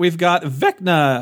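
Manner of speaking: voice cracking. Announcing release dates alongside another host, voice cracking. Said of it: "my voice just cracked like a teenager".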